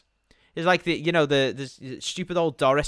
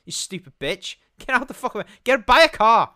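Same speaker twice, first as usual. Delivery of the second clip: mock road rage; 5 semitones higher than usual. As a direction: rant at the cyclist ahead. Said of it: "it's like".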